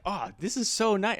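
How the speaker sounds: retold delight, lifted in pitch; delighted relief. Retells delight at friendly crowd.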